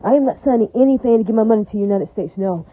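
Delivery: firm, deliberate declaration for the record; a flat refusal, stated emphatically on the record; emphatic. Real, not acted. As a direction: lean on every word, for the record. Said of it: "this is me emphatically saying on the record".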